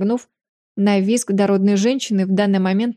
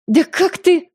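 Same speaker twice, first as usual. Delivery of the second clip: high, loud, sputtering outrage; choking indignation; 9 semitones higher, 5 dB louder, slower than usual. A narrator's reading. The stout mother chokes with outrage at Kael, furious. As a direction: splutter with fury. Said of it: "захлёбывалась возмущением".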